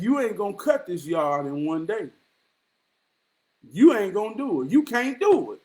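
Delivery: lightly voiced granddad challenge; granddad's voice. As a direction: quote granddad's doubt, a hint of his voice. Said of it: "That's how he talked".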